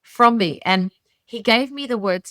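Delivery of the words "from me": very slow, pleading prayer to God. Retold or imitated. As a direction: draw out please take this. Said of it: "I'm like".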